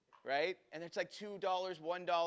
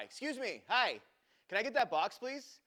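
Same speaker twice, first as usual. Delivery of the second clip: high, raised, insistent but polite request; calling for attention; 7 semitones higher, 4 dB louder than usual. Retold or imitated. Customer calling out to the vanished waiter for a box, insistent. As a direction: flag down a waiter, voice lifted. Flagging down absent waiter in story.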